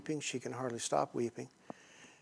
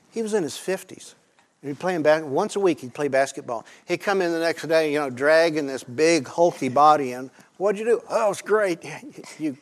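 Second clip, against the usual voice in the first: animated storytelling; 3 semitones higher, 9 dB louder than usual. Real, not acted. Lively boss story, louder.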